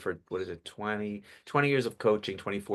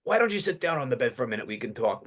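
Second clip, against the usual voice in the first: quick, raised gravelly grandpa voice; grandpa character; 2 semitones higher, faster than usual. Shown as a demonstration. Grandpa asking grandchild to sit on the bed, gravelly character voice. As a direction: coax like a gravelly old grandpa. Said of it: "It's obvious with the change of voice".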